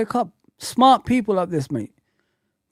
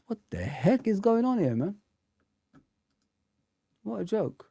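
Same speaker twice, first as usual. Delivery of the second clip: breathy whisper to himself; hushed puzzled whisper; whispered aside; 3 semitones higher, 11 dB quieter than usual. Real, not acted. Streamer baffled as his internet drops, whispering.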